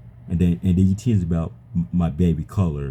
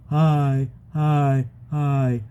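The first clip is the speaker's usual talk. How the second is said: mock interrupter; 9 semitones higher, much slower than usual. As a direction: mimic someone barging in, pitched up. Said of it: "you can't just run out your mouth and, and say".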